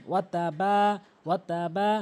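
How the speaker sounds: ওয়া তা বা with a lengthened বা; বা drawn one count. Shown as a demonstration. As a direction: stretch the final বা a little. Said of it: "অবশ্যই এক আলিফ টেনে পড়বেন".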